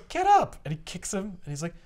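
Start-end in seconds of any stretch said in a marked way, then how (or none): 0.1-0.6 much higher, hammed-up order; mock command. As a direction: bark at the fallen man. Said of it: "Beyonder goes".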